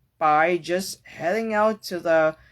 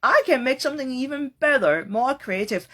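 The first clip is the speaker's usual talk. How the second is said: higher, brighter eager lift; notched-up enthusiasm; 7 semitones higher, 3 dB louder than usual. Pretend. Voicing a better attitude, eager. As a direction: push the joy up a notch. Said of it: "really turning the notch one up".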